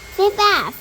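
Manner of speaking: high, loud panicked yell. A narrator's reading. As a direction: yell it over the roaring wind. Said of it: "yelled Grandma Jo-, Georgina".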